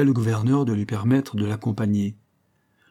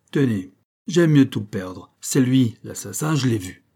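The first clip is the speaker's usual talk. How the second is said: desperate accusation; 4 dB louder than usual. Acted. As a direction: give up everything and point at him. Accused man finally names the killer.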